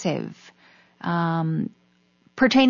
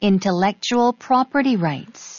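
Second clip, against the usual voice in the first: careful, measured "intellectual property rights"; slow pronunciation demo. Shown as a demonstration. Native speaker repeating a term one more time, slow pronunciation. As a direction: model each word slowly for learners. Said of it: "천천히요".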